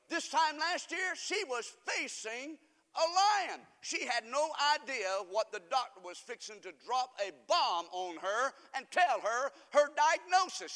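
weighty, emphatic sermon delivery; forceful preaching. Real, not acted.

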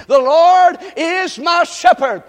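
call-and-response psalm reading; slow recitation. Shown as a demonstration. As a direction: say it slowly for them to repeat. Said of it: "Say it with me".

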